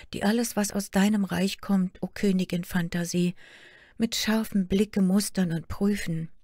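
a hurt daughter pouring out her sorrows; young princess Märchen. Acted. Daughter complains to her queen mother, lightly plaintive girl voice. Märchen tells of the wise guards.

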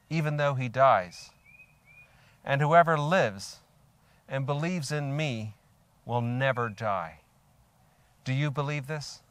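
solemn proclamation from the pulpit; scripture reading. A narrator's reading. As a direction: read it out deliberately, phrase by phrase. Reads scripture aloud to congregation.

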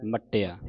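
ਮੱਟਿਆ with a doubled ਟ; tight geminated consonant. Shown as a demonstration. Teacher demonstrating adhak, ਮੱਟਿਆ with tight doubled ਟ. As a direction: hold and release the ਟ in ਮੱਟਿਆ firmly. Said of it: "ਕੱਸ ਕੇ ਬੋਲਣਾ ਹੈ".

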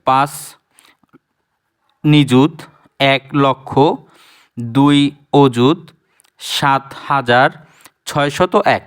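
slow, each place name spelled out; place-by-place reading. Shown as a demonstration. Teacher reads the number by each place, slowly. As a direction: read it unit by unit, slowly. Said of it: "কথাটা একটু মানানসই হয় না".

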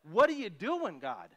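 hammed-up frightened disciples yelling at God; impolite demand. Disciples in the storm yelling at sleeping Jesus, mock-angry outcry. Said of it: "that's not a polite".

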